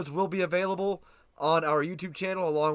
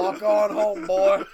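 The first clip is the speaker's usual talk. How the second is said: cowboy drawl; 3 semitones higher, 6 dB louder, much slower than usual. Pretend. Cowboy line.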